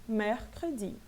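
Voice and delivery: mercredi with the second E almost dropped; barely pronounced middle E. Shown as a demonstration. French teacher showing the closed second E, lightly pronounced. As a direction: say mercredi as "mehr-kr'di", open then reduced. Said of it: "Praticamente eu não pronuncio".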